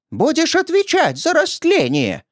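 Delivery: high shrill crone threat; old woman's accusation. Acted. Old woman accuses the narrator of corruption, high and shrill. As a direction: fling the accusation.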